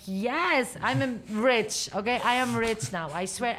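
loud, thrilled mock boast; giddy excitement. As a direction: shout it like you just got rich. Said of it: "I'm like".

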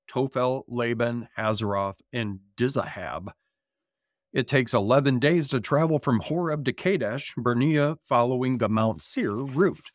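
measured scripture read-aloud. Acted. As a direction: read it like a sermon text.

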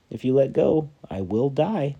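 high pleading call; dangling stranger begging him not to let go; urgent plea. Acted. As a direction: plead it up from below. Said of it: "said the stranger".

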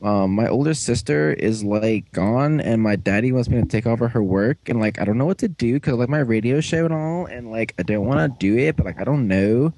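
lightly voiced teen-girl rambling; mock teenage girl. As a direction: ramble like a fifteen-year-old girl, mildly put on. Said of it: "You're a fifteen-year-old girl now".

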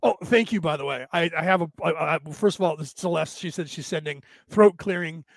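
ordinary talk

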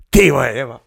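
deadpan comic letdown; imitated goalkeeper's realisation. Goalkeeper after the ball flew into the net, mock dismay. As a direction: drop from the big shout into dismay. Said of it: "a on říká".

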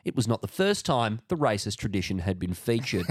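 article read aloud in a newsreader's measured cadence; news read. Acted. Co-host reads a New York Times article to listeners, news read.

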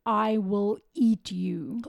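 slow, mildly emphatic mock threat; retold shout. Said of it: "one of the accused shouted to the crowd".

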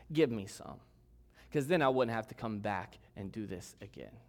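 dropping low into a dry, understated sarcasm; mildly bitter, dismissive demand. Retold or imitated. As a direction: hand it over with a touch of sarcasm. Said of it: "Can you sense the bitter tone in her voice".

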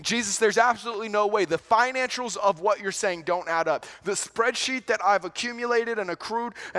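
a worried disciple arguing the numbers; exasperated protest. Acted. Disciple protests to Jesus, voiced.

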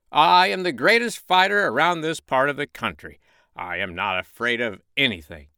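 high, loud boastful rooster; crowing proud rooster. Acted. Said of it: "said Red Rooster".

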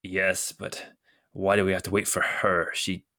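low, hushed gruff grumble; gruff, uneasy complainer. Acted. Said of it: "the gruff voice says".

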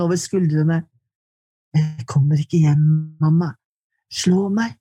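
deliberate literary recitation with long pauses; poem reading. Acted. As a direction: read it as a poem, letting each image land. Poet reads her poem.

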